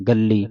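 "ਗੱਲੀ", the l held double; tight double l. Shown as a demonstration. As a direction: squeeze the ll of "ਗੱਲੀ". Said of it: "ਕੱਸ ਕੇ ਪੜ੍ਹਨਾ".

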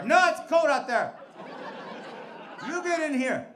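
loud, high whiny protest; whiny drunk protest. Retold or imitated. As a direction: plead like a stubborn drunk. Drunk refusing cop, inviting him.

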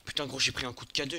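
loud fast frustrated swearing; raging gamer. Real, not acted. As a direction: vent at the hit, fast and loud. Hit in game, swearing.

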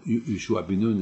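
ordinary talk, nothing marked

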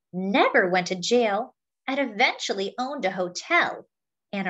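put-on lively picture-book read to children; story narration. A narrator's reading. Reading a picture book about a singer to friends, lively storytelling. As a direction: tell it like a storyteller to a class.

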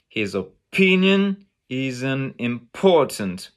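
"his opinion is an important" punched on PIN and POR; English emphasis. Shown as a demonstration. Teacher marking two groups, strong stresses on "pin" and "por". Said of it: "the emphasis".

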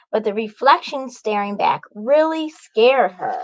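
bright, lively read-aloud; cheerful story time voice; storybook narration. A narrator's reading. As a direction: wake the kids up with the morning. Picture-book narration.

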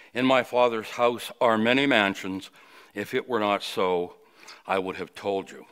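measured, solemn Bible reading voice; scripture reading. Acted. Preacher reading John fourteen to the congregation, solemn. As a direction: read the verses with reverent weight.

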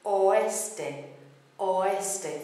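"oeste" as o-ES-te, o and e separate; careful Spanish "oeste", vowels not merged; three syllables. Shown as a demonstration. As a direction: keep three clear beats in "oeste". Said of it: "three syllable word".

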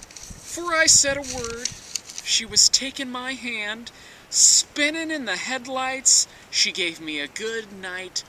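hammy stage actor. Acted. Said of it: "a dramatic reading of".

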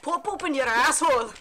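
hammed-up Irish lilt, amused; mock Irish, breaking into giggles; Irish accent. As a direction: clown around in a fake Irish accent. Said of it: "should do our Irish accent".

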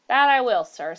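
loud, high, fervent agreement. A narrator's reading. George agreeing to sleep in the room, fervent. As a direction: jump in fervently, loud on the first words. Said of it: "said George fervently".

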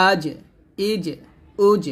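আজ, ইজ, উজ with a bounced final j; echoing qalqala jim. Shown as a demonstration. Teacher recapping the jim drill, each syllable bounced. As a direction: release the j of আজ, ইজ, উজ with a small echo. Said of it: "জিমটা কলকলা করতে হবে".

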